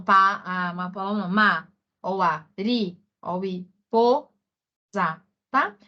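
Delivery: pa, a, ma, ri, po, za said as separate, split-up syllables; teacher sounding out syllables for students. Shown as a demonstration. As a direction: break each word into its syllables and say them one at a time. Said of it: "quando eu falo paloma".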